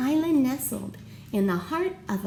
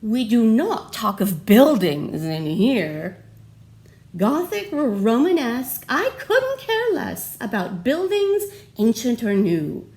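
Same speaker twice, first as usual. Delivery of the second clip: loud, firm schoolteacher scolding; stern teacher; 5 dB louder than usual. Acted. Teacher scolding her second graders, loud and stern. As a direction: lay down the law to the class. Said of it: "she had this to say".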